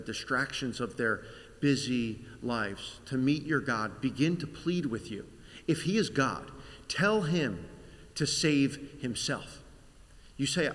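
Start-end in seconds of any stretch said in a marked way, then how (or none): 5.7-9.6 pleading. Acted. Passengers pleading with you.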